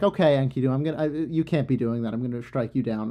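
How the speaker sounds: mildly stern warning; lightly voiced threat from Ishtar; goddess threatening. Ishtar warns Enkidu after the bull's head, mild threat. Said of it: "and she's like".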